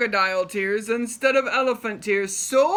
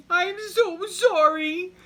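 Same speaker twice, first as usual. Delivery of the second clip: higher, louder pleading sorry; mock-sorry crocodile; 11 semitones higher, 6 dB louder than usual. Crocodile apologizing to Big Max, mock-sorry plea. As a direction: ham up a fake apology.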